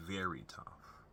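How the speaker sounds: soft breathy whisper of the words. Real, not acted. Son quietly stressing how tough his mom is, whispered. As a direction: drop to a hushed whisper to stress it.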